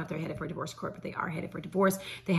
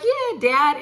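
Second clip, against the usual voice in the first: cheering for dad; 8 semitones higher, 6 dB louder than usual. Retold or imitated. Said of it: "now I'm like".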